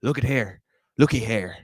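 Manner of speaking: mock talk-show host in an Irish accent; Bill Maher with an Irish accent. Comic imagining himself on SNL, hammed-up Irish host accent. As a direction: announce it in a put-on Irish brogue. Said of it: "I'm supposed to be, like, Bill Maher".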